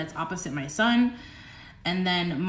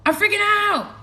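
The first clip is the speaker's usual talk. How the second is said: high, loud hammed-up panic; loud mock freakout; 13 semitones higher, 6 dB louder than usual. Streamer announces her freakout to viewers, loud high mock panic. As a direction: shout it in playful hysteria.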